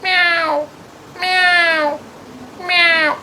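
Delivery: very high nasal meowing; cat meow. Shown as a demonstration. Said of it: "बिल्ली कैसे बोलती है?". (बहुत ऊँची म्याऊँ)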